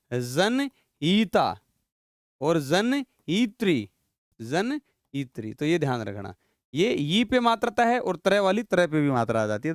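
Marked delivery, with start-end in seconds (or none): 0.1-1.5 "जनईता" stretched out syllable by syllable; very slow pronunciation. Shown as a demonstration. Teacher dictating "जनईता" slowly to the class. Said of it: "जनईता नहीं". 2.4-5.5 "जनईत्री" drawn out, with a clear tri; slow pronunciation. Shown as a demonstration. Teacher dictating the feminine form "जनईत्री" slowly. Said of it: "जनईता नहीं".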